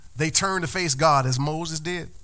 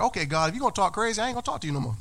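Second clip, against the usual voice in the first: mock defiant threat; 4 semitones higher, much faster than usual. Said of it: "this is how I was acting".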